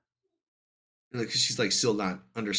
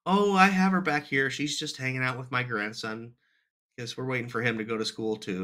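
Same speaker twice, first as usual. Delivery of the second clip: put-on elderly neighbor Nancy; 4 semitones higher than usual. Dad voices elderly neighbor Nancy.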